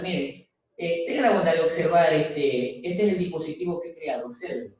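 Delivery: a hint of a formal presenter inviting the jury; demo presenter. Shown as a demonstration. Teacher acting a student showing his invention to the jury, lightly formal. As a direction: offer the device politely, lightly acted. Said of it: "suponiendo, se me ocurre".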